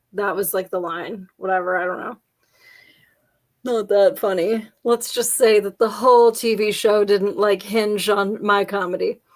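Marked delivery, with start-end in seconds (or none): 1.4-4.7 a self-mocking whispered aside. Real, not acted. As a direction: whisper it under your breath.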